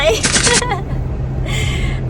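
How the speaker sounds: high, helpless giggling laugh; real laughter. Real, not acted. Wife relaying husband's gun shop question, high laughter. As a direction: burst out laughing, pitched high.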